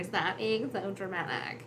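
slow, mildly dismissive mock. General making fun of Darth Vader, mildly mocking. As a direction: drawl it out, lightly mocking. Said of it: "he's making fun of him".

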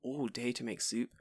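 weary inner voice. Retold or imitated. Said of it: "I'm like".

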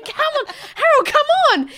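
high, pleading urgency; embarrassed wife. Retold or imitated. Wife pulls drunk Harold away, high pleading. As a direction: tug him away with your voice. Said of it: "or whatever his name".

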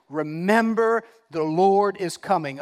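weighty, emphatic preacher; firm pulpit proclamation; scripture declaimed. Real, not acted. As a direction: proclaim it to the congregation.

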